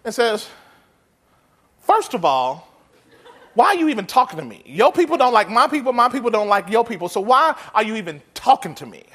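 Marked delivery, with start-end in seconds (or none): 1.8-9.0 a touch of sassy disbelief, quick and incredulous; sassy attitude. Retold or imitated. Samaritan woman snapping back at Jesus, mock sassy. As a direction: push back at him with mild attitude. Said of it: "this attitude in the text".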